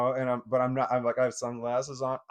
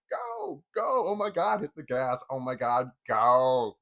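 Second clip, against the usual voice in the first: urgent urging; 6 dB louder, slower than usual. Retold or imitated. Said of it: "And I'm just like".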